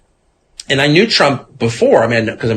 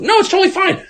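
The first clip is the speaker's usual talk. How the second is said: sarcastic mock; faster than usual. Sarcastic voice of others.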